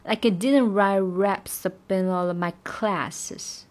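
didn't stressed, line a bit slow. Shown as a demonstration. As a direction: lean on didn't. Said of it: "然后didn't要重读". (didn't重读)

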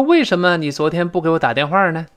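mildly accusing question; questioning reproach. Acted. Girl asks a man why he didn't call, mildly reproachful. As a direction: ask it as a light demand for an explanation. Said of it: "有点质问的语气了".

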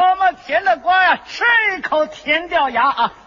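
接着对手的词往下叫卖; 略带夸张的卖瓜腔; 瓜贩吆喝. Acted. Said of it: "你听着吆喝呀". (摆摊招揽顾客的吆喝)

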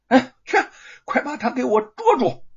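high, urgent yell of command; loud shouted order. A narrator's reading. Magistrate sending a constable after him, loud shout. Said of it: "大声向那名差役喊道".

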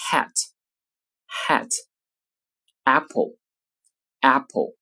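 each word said twice, slow, with a wide tense "a" as in "cat"; tense vowel a demo. Shown as a demonstration. Teacher modelling tense a for students, mouth spread wide. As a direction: spread the lips and tense the face for "a". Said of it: "例如在单词中".

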